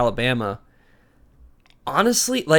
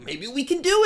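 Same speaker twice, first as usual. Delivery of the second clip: hopeful fan voice; 12 semitones higher, faster than usual. Retold or imitated. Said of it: "until you're like".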